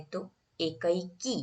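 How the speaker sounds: एकैकी said slowly, leaning on the ऐ; slow demo. Shown as a demonstration. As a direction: stretch एकैकी so the ऐ sound is clear. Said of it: "ऐ की मात्रा लगती है".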